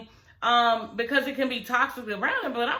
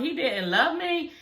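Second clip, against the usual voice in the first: put-on little boy voice; 5 semitones higher, slower than usual. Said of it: "the little boy's like".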